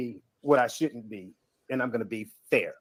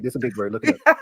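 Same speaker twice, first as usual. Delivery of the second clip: condescending; 2 semitones lower, 3 dB louder than usual. Real, not acted. Condescending panel host.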